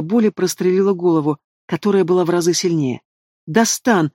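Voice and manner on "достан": mild shout. A narrator's reading. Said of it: "закричала матушка".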